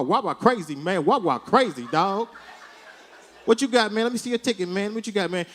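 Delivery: lightly voiced hip-hop slang clerk; a hint of a street-talking clerk, loose and chummy. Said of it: "change how he talks".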